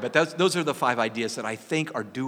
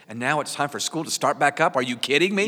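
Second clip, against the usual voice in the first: exasperated; 3 semitones higher, 7 dB louder than usual. Retold or imitated. Mock exasperation about school restart.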